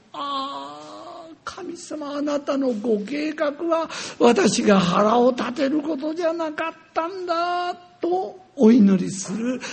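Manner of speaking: prayer. Retold or imitated. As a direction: pray in humble awe. Retold prayer to God.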